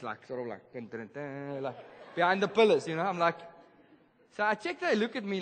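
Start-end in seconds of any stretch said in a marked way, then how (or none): 0.3-1.6 low hummed suspense dun dun dun; mock spy music while sneaking; dramatic sneaking tune. Sneaking behind a stranger, humming a low suspense tune. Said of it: "I'm like this".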